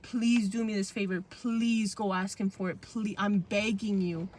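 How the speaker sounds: slow, drawn-out please, mildly pleading; retold begging. Retelling a plea to brother and sister, slow mild begging. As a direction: beg lightly, stretching the words. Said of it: "I remember begging my brother and my sister".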